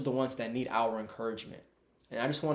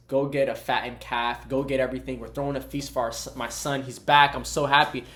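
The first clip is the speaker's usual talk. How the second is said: rejoicing father, louder as he goes; excited, happy king; 6 dB louder than usual. Retold or imitated. King telling servants of his son's return, excited. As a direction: build the excitement while ordering a feast. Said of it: "He's excited. He's so".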